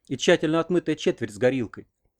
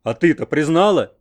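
barely hidden joy; 3 semitones higher, 7 dB louder than usual. A narrator's reading. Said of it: "не сдержался от внутренней радости".

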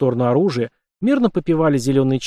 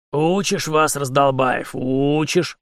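put-on grumbling old soldier; ворчливо; much slower than usual. A narrator's reading. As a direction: grumble it like a cranky sergeant. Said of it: "проворчал Игнат". (ворчливо, как старый унтер)

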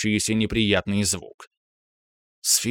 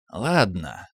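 calm; 3 semitones lower than usual. Acted. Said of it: "спокойно ответил он".

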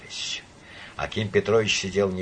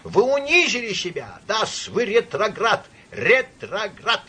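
put-on high-pitched, raised drunken shouting; thunderous accusation; 10 semitones higher, slower than usual. A narrator's reading. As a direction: denounce him at the top of your voice. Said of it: "прокричал он громовым голосом".

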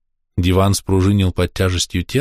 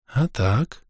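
hoarse whisper; 4 semitones higher, 6 dB quieter than usual. Acted. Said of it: "донёсся хриплый шёпот".

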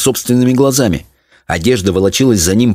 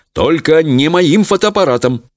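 higher-pitched, stern father; stern cry; 8 semitones higher than usual. A narrator's reading. Father protecting his camera from daughter, stern. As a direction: forbid it sternly, without shouting. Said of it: "строго крикнул отец".

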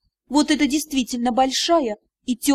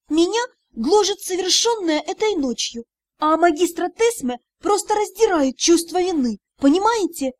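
heated protest; 4 semitones higher than usual. Acted. Heroine argues heatedly.

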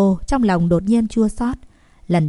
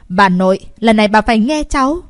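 "lần này bà phải nghe cháu" pressed louder and quicker; "bà nội" said louder, then "phải nghe cháu" insisted on; emphatic insistence; 2 semitones higher, 5 dB louder, faster than usual. A narrator's reading. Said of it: "cố Cơ Uyển nhấn giọng".

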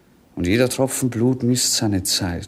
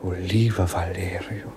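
whisper; 2 semitones lower, 4 dB quieter than usual. Acted. Prince sighs to his servant.

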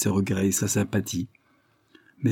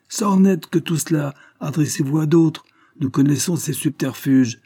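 mocking crowd, pitched higher and louder; jeering creditors, higher and louder; derisive; 7 semitones higher, 5 dB louder than usual. A narrator's reading. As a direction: scoff at the lawyer's claim. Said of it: "firent-ils avec dérision".

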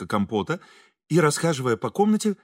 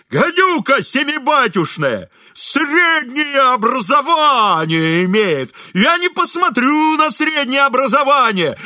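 howling loud and slow, much higher; furious bellowing janitor; yelling; 11 semitones higher, 6 dB louder, slower than usual. A narrator's reading. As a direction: bawl it out across the yard like a drunk janitor. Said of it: "вопил дворник".

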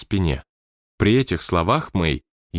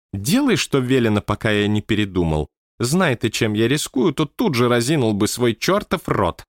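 a touch of a grumble, higher; manager grumbling; 3 semitones higher than usual. Acted. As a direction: grumble it like the stern boss. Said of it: "буркнул себе под нос". (ворчливый голос руководителя)

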